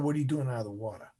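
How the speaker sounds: lightly voiced instructor insisting on an answer; instructor's firm repeat. Instructor repeats question, now stern.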